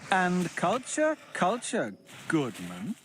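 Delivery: a hint of a prim scolding tutor; understated haughty reprimand; lightly voiced scolding Matteo. A narrator's reading. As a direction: chide him with mild disdain.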